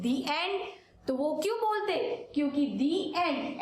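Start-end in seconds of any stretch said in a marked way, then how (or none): 0.0-0.7 the said "thee" before end. Shown as a demonstration. Teacher showing students "the" as "thee" before end. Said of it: "at the end of the movie हम क्या बोलते हैं?". 2.8-3.6 the said "thee" before end. Shown as a demonstration. Teacher explaining why "the" becomes "thee" before end. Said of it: "end का ई वावेल sound कर रहा है".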